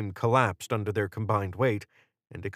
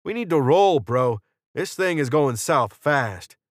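urgent, higher and louder call; Jordan; 5 semitones higher, 5 dB louder than usual. A narrator's reading. Jordan urging Carmine to leave, raised and urgent. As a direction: hurry an ally along with a raised voice.

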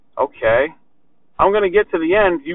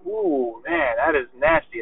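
hushed admiration; 6 dB quieter, slower than usual. Acted. Acting out impressed fellow barbers.

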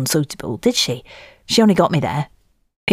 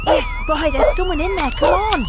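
straining shout. Acted. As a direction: call out while digging. Rescuing someone from exploded house.

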